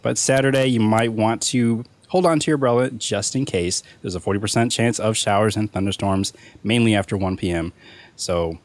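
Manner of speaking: newscaster weather forecast; weather report read. Acted.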